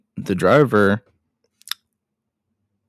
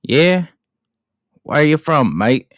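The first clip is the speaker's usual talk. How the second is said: a musician; 4 semitones higher than usual. Acted. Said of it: "and Mick says".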